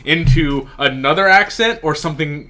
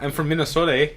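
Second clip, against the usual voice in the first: put-on Minnesotan accent; much faster than usual. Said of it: "Like Fargo speak".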